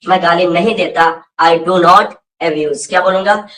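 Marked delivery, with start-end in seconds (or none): 1.4-2.9 slow model answer. Shown as a demonstration. Teacher models answer for class.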